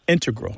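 "integral" stressed on its first syllable, IN-tegral; "integral" as IN-tuh-grul. Shown as a demonstration. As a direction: hit IN in "integral". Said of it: "with the stress on the first syllable".

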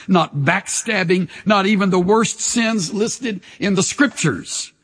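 impassioned sermon delivery; preaching. Acted. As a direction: preach it to the congregation with conviction. Pastor preaching to congregation.

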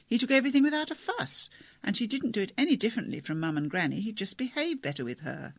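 a hint of a lively young girl telling it; animated teenage girl. Kate explaining grandfather, animated.

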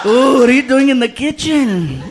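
slow seductive. Acted. Seductive slow phone talk.

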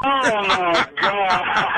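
long, drawn-out exclamation; real astonishment breaking into laughter; stunned relief. Real, not acted. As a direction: let it out slowly in huge relief. Victim learns it was a prank.

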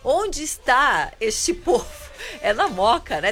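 slow, amused question through a laugh; laughing while asking. Real, not acted. Host asks co-host where the fans gather, laughing. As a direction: chuckle your way through the question.

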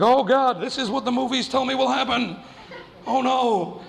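high mock panic with a laugh. Teen realising the shower threat, mock panic. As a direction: play up the dread. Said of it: "And I was like".

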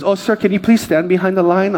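a hint of a lady's voice; airline lady. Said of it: "the lady goes".

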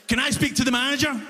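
fast, demanding complaint; entitled customer. Retold or imitated. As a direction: ask for the manager curtly. Angry customer demanding manager.

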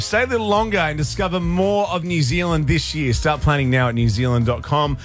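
lightly polished radio promo read. Real, not acted. Host selling a New Zealand trip to listeners, promo read. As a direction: read it as a radio competition plug.

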